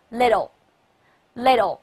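LITTLE read slowly as a model for repeating. Shown as a demonstration. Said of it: "现在我们分别来一块儿读".

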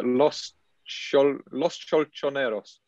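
Los Cholchoneros in a slow, full British accent. Shown as a demonstration. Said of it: "full British one".

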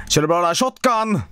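mock Swedish accent; imitating a Swede. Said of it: "taking the piss out of Swedish accent".

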